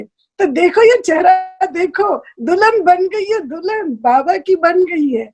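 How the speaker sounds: high, eager presenting; excited showing-off. Retold or imitated. Brother shows her glowing face to the elder mothers, high and eager. Brother announces she became bride.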